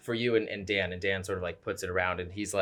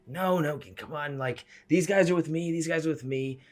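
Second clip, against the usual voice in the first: higher-pitched pleading with the vendors; interceding companion; 7 semitones higher than usual. Acted. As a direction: wave them off in a high, urgent voice. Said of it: "sparks just sort of, like, fly down".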